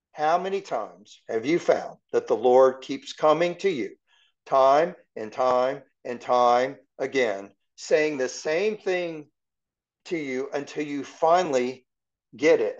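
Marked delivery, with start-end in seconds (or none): 4.5-7.5 slow repetition. Real, not acted. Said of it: "emphatic repetition".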